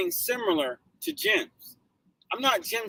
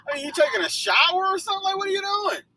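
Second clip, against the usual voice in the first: fast, high, laughing through the words; giggling ridicule of the wet driver; laughing disbelief; 10 semitones higher, faster than usual. Real, not acted. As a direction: tease him while still laughing. Mocking the soaked driver.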